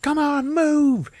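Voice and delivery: urgent mock shout. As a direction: urge someone to flee in a cartoon shriek. Brenda urging Frank to flee.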